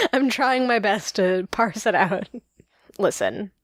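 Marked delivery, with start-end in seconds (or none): 3.0-3.5 whispered as a playful confession; conspiratorial whisper. Pretend. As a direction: hush it like a secret. Mock confession about New York.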